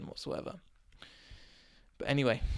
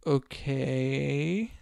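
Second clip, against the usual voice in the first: doubtful driver. Retold or imitated. Sceptical taxi driver acted out.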